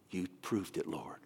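low, whispered reply in reverence; awed hush. Retold or imitated. Pastor answers the Lord after the check, retold awed whisper. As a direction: let it fall away into a whisper.

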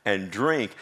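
preacher crying out Jesus's invitation. Acted. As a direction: call out to the crowd as Jesus. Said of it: "Jesus cries out".

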